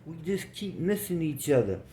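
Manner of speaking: high-pitched, delighted surprise; happy. A narrator's reading. Woman at party office greets a long-unseen friend, happily. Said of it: "she got happy and said".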